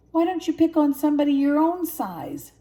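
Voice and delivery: high loud brave challenge; furious cub shout. A narrator's reading. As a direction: yell to defend your friend. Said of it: "Simba shouted".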